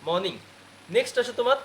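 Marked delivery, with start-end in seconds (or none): 0.1-0.3 মর্নিং with no R, "mawning"; silent R. Shown as a demonstration. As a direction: say মর্নিং as "moning", dropping R. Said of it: "কি হবে?". (মর্নিং, র ছাড়া মনিং)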